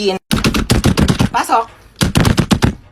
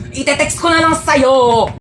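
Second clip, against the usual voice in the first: angry shout; 3 semitones higher, slower than usual. Acted. Child yelling during a quarrel.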